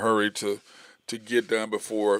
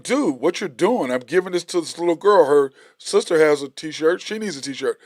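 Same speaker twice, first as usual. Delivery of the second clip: mock indignant; 3 semitones higher, 4 dB louder than usual. Retelling arm-block fight over T-shirt.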